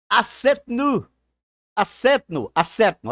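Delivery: "acetnu" with the tonic syllable punched; stressed syllable shown. Shown as a demonstration. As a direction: demonstrate the stress in "acetnu", word by word. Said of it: "aqui está a sílaba tônica".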